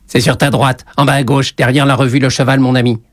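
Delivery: grating, chilly witch; icy witch. A narrator's reading. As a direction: give directions like a cold old witch. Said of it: "toujours d'une voix glaciale".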